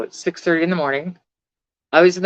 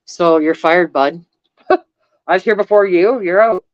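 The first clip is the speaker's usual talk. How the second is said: loud, firm firing of the doctor, a touch higher; telling off doctor; 4 semitones higher, 5 dB louder than usual. Retold or imitated. Patient firing her doctor after not being listened to, loud and firm. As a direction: say it like you're firing him on the spot. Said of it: "I'm like".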